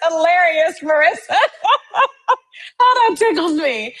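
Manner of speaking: high, laughing through the words; giggling, really tickled. Real, not acted. Laughing at viewer's story.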